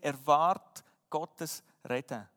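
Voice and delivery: "Erwart Gottes Reden" drawn out slowly, each word weighted, falling at the end; slow emphatic motto. Shown as a demonstration. Preacher stating his first point to the church, slow and weighty. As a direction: spell it out slowly like a heading. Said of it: "Wir haben vier Punkte gesehen".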